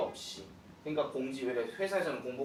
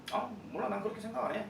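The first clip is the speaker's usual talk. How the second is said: 대놓고 말하기; 6 semitones higher, 4 dB quieter, much faster than usual. Acted. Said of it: "되게 대놓고 얘기하는 거잖아요".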